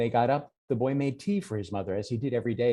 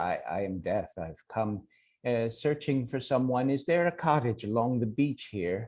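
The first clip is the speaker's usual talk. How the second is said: solemn Death. Acted. Death introduces himself to Jack.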